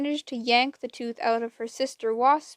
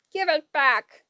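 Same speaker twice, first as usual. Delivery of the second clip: higher, louder hag cry; demanding; 4 semitones higher, 6 dB louder than usual. A narrator's reading. Wasp demanding the tooth from Anger. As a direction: shriek for the tooth back. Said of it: "Wasp moaned".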